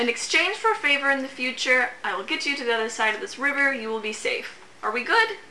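sly imp voice. Acted. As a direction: coax them like a tricky little imp. GM voices the imp's deal.

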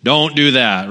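a hint of dad voice, drawn out. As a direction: lightly imitate a dad's slow telling-off. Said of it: "Some of you dads have a dad voice".

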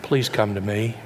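gentle pleading. Retold or imitated. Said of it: "How many times has God pleaded with you".

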